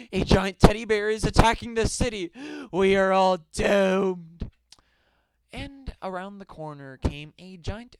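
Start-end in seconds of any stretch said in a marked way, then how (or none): 0.1-4.5 mock scream. A narrator's reading. Warning that a giant bear attacks, mock scream. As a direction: raise the alarm like a doomed townsman. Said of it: "he screamed".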